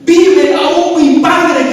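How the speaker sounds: slow, high, broken with tears; José weeping as he reveals himself; tearful. Acted. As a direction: say it slowly as though about to weep.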